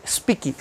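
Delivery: "speak" said as spee-kee; added final I. Shown as a demonstration. Teacher showing the mistake, added I on "speak". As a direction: tack an ee onto "speak". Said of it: "Não tem I".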